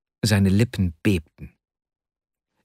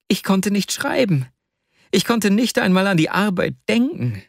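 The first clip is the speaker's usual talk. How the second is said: anguished confession; 5 semitones higher than usual. Acted. Vasja confesses his lost weeks.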